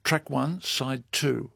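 radio DJ intro. Acted. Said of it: "your best D J voice".

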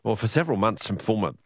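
radio news bulletin delivery; news read. Acted. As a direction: read out the day's political news to listeners. Presenter links the news clips.

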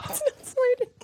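very high exasperated squeal; giddy high-pitched despair; delirious wail. Real, not acted. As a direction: squeal it helplessly, high but not shouted. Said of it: "I feel delirious".

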